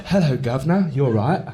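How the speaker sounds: hammed-up Cockney greeting; badly faked London accent; mock Cockney accent. People coming up to an Englishman, mock Cockney. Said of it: "people just go".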